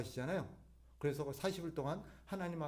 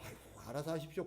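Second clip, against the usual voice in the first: softer mock-modest deferral; feigned humility; 6 dB quieter than usual. Preacher imitating a stubborn person acting humble, feigned humility. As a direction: pretend to give way humbly. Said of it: "겸손한 척 말한".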